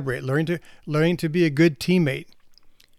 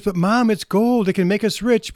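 put-on a child begging mom to look; excited girl; 5 semitones higher, 5 dB louder than usual. Little girl shows busy mom the gold, higher excited plea.

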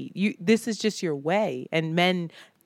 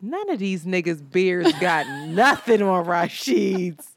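mock drunk boast; slower than usual. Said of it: "You just said".

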